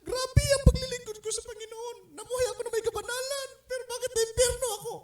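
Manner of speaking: high, wailing imitation of a sobbing elder; imitating crying. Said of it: "Iyak siya ng iyak". (ginagaya ang umiiyak na elder, mataas na boses)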